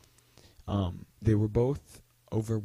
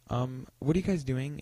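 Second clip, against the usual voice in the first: imitating a polite, higher-pitched question; 4 semitones higher than usual. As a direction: ask politely, pitched a little up. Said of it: "in, like, a polite tone".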